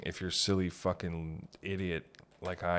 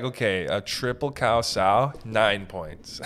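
lightly voiced judge, slow and loud; hint of a fussy judge scoring; mock judge; 6 dB louder, slower than usual. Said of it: "Who was like".

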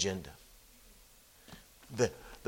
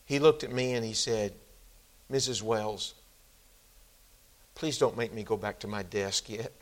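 voice cracking. Retold or imitated. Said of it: "you could hear her voice crack".

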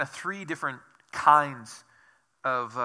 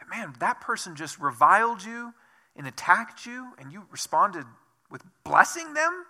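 amazed onlooker; 3 semitones higher than usual. Pretend.

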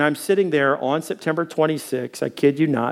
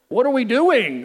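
laughing confusion; 8 semitones higher than usual. Retold or imitated.

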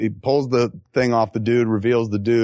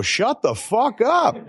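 higher, slow, half-laughing; mock yell; 12 semitones higher, slower than usual. Quoting the guy off camera, laughing mock yell. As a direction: bark it through a laugh. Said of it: "when you hear the guy go".

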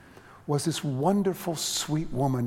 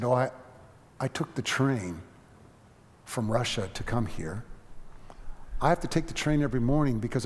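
sweet calm voice; 2 semitones lower than usual. Retold or imitated. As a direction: speak humbly and tenderly, unhurried. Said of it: "she had this sweet, calm voice".

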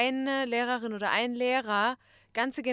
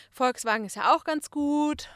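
louder, higher retold remark; raised conversational voice; 5 semitones higher, 8 dB louder than usual. Making car small talk with an Arabic speaker, raised voice. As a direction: pitch it up and out to the listener. Retold chat about cars with Arab.

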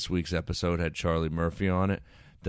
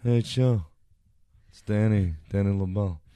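Danny LaBelle impression; 2 semitones higher, 4 dB louder than usual. Comic doing a loud, hammy Danny LaBelle phone greeting. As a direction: announce yourself like a jolly pal. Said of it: "I sound like Danny LaBelle".

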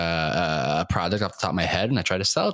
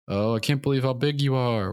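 mimicking a relative; 5 semitones higher than usual. Relatives' clichéd remark mimicked.

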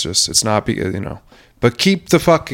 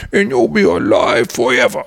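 taunting intercom announcer; 3 semitones higher than usual. Pretend. Gravedigger taunts the buried man over an intercom, put-on taunting announcement. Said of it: "explaining over the intercom".

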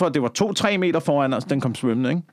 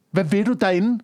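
1 mock scolding; 7 semitones higher than usual. Talking to migrants, mock scolding.

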